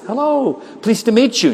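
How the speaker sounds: high-pitched hello to a foreigner; exaggerated high-voiced introduction; over-polite greeting. Greets mother who speaks no English.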